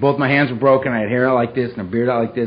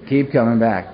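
lower, dry mocking echo of "Keep coming back"; sarcastic repeat; 3 semitones lower than usual. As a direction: throw the slogan back with sarcasm. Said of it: "I thought, "Oh, beautiful".

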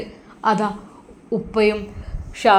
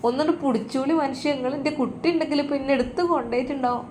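put-on a higher, whining old woman's voice; whiny injured old mother; 4 semitones higher, faster than usual. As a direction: complain in pain, pleading. Injured mother-in-law complaining in pain.

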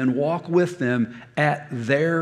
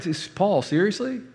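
incredulous; 4 semitones higher than usual. Retold or imitated. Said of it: "you're like".

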